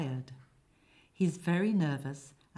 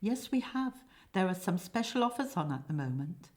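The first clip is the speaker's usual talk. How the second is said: salesman's patter, starting high; quick, upbeat sales talk; commercial; 3 semitones higher than usual. Acted. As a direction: pitch it like a special offer. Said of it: "speaking commercially".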